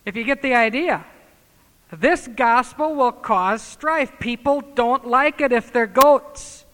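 loud, slow pulpit thunder; slow, emphatic sermon warning; preaching at full force. Acted. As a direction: drive it home to the pews.

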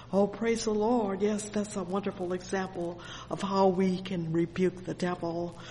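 normal talking voice

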